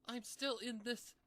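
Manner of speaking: high pony voice spiralling into fear; rising panic. Acted. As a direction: climb into alarm as it sinks in. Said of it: "Pinky began to panic".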